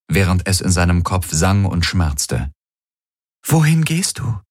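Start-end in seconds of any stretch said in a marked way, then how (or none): 3.5-4.4 worried Ylana. Acted.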